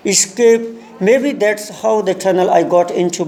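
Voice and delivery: very slow, deliberate English reading; lesson read-aloud. Shown as a demonstration. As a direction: read it out word by word for learners. Reads the lesson aloud slowly. (धीरे-धीरे, शब्द-दर-शब्द पाठ पढ़ना)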